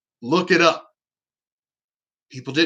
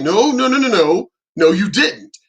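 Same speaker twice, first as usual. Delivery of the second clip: loud, insistent denial; acted-out firm objection; retold protest; 2 semitones higher, 4 dB louder than usual. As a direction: cut in firmly with rapid, louder noes. Acted argument with the doctor.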